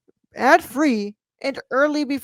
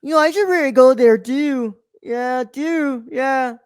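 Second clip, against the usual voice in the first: bad Irish accent; 4 semitones higher, 3 dB louder, slower than usual. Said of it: "No, he's like".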